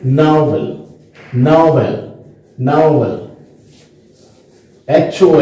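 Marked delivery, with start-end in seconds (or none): 0.1-3.2 "नॉवल" with a gliding o-u in the first syllable; careful model "नॉवल" with a two-part o; diphthong o. Shown as a demonstration. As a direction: glide the o in "नॉवल" like "now-vl". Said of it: "इसमें हम पढ़ेंगे".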